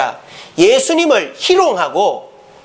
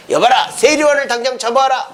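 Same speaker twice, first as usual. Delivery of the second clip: lightly acted royal order, pitch raised; commanding king; 4 semitones higher than usual. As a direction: call out to servants as a king. Acted king summons men to arrest. (신하에게 호령하는 왕 흉내)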